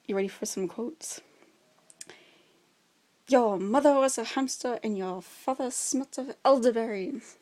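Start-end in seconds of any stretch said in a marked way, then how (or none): 3.3-7.4 mock taunting insult, a bit louder; Monty Python quote. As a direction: hurl a silly movie taunt. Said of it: "I had to do it though".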